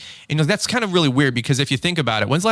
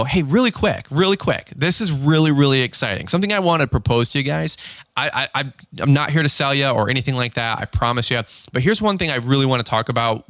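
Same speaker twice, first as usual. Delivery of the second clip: lifted, lively opening with a keen customer pitch; excited sales pitch. Shown as a demonstration. Salesman proposing lighting to backyard customers, excited. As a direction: raise the voice into an eager, excitable pitch. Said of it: "You sound excited. You sound excitable".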